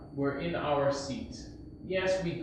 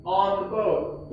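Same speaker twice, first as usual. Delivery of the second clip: louder, higher, slowly spelled-out answer; raised voice; 5 semitones higher, 6 dB louder, slower than usual. Acted. Teacher giving the class the answer, raised voice. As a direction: call it out slowly, half-way to a yell. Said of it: "he's gonna yell".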